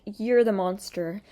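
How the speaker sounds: slow, drawn-out mocking taunt; sneering, hammed-up imitation; mock villain. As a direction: parody her smug accusation. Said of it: "she's like".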